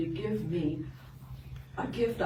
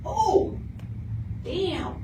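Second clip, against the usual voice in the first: alarmed exclamation; 9 semitones higher than usual. Real, not acted. Sees dog in road.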